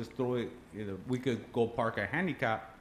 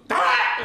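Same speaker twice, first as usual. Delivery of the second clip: sudden loud mock scream of a waking grandma; hammed-up startled yell; retold grandma scream; 12 dB louder than usual. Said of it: "then she goes".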